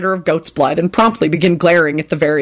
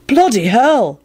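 impressed; 5 semitones higher, slower than usual. Acted. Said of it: "Ron said in an impressed voice".

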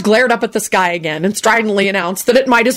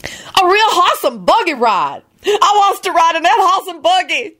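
put-on much higher, childlike excitement; excited Lucretia; 12 semitones higher than usual. A narrator's reading. Lucretia spotting the buggy, much higher and excited. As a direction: beg for it with high excitement. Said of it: "pointed excitedly".

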